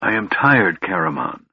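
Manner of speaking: weary and fading; tired sigh. Acted. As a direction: sigh the words out. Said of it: "sigh softly".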